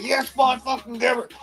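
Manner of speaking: put-on Newfoundland pub yell with "Yes, boy" thrown high; excited Newfoundland cheer. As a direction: cheer the goal like a drunk Newfoundlander. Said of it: "I started getting excited".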